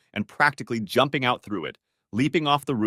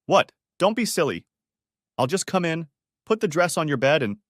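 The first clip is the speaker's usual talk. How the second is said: incredulous; 6 semitones higher, 3 dB louder than usual. Acted. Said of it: "incredulous tinge".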